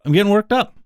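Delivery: mock fired-up repeat of the line; mock worked up. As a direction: play at getting riled up.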